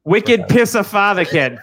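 slow mock Boston pun; drawn-out Boston "wicked pisser"; Boston accent. Answering a Wicked Fantasy Father joke, slow mock Boston accent. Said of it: "the Wicked Fantasy Father".

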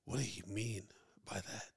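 low, soft, trailing-off question; hushed mock questioning, lacking any oomph; imitated sluggish questioning. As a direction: imitate him asking with no urgency. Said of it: "ask that question faster".

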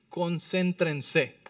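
very slow, syllable by syllable; drawn-out emphasis. Shown as a demonstration. Preacher asks what the verse says, slow emphatic answer. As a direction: stretch the word out deliberately.

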